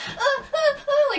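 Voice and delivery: high, loud flustered stammer; flustered laughing. Retold or imitated. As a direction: fumble and laugh. Flustered, stuff falling out.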